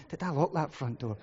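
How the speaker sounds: a hint of anxious muttering to yourself; mild worrying. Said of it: "immediately I'm worrying".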